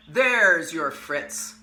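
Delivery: slow, gloating magician voice; sinister magician. Acted. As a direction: gloat slowly over the boy. Magician presents the duck.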